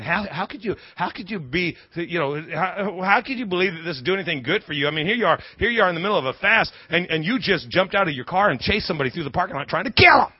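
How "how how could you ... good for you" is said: inner voice of doubt. Retold or imitated. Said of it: "you hear this voice inside you saying".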